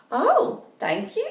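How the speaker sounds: Kitty thanking Red Riding Hood, high and pleased; delighted Kitty. Acted. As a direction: gush over the gift. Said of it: "said Kitty".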